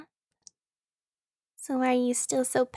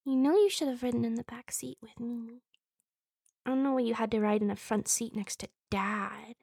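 soft whispering; 8 dB quieter than usual. Acted. Sibling grumbles about the front seat, soft whispering. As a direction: say it softly under the breath.

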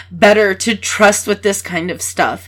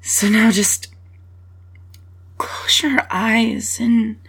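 whispering; 3 dB quieter than usual. Real, not acted. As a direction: whisper it softly, trailing away. Gentle closing comfort.

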